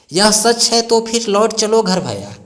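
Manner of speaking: a teacher reciting Kaikeyi's plea; declaimed verse. Shown as a demonstration. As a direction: declaim it like a poet on stage. Recites verse line with force.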